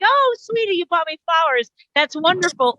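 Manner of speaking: mock-gushing wife thanking her sweetie; sweet thrilled wife. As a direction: coo it like a delighted partner.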